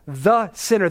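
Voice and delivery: "the" said as a deliberate "thuh" before "sinner"; stress on THE. Acted. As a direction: lean on "the", setting it apart from "sinner". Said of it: "There's the definite article".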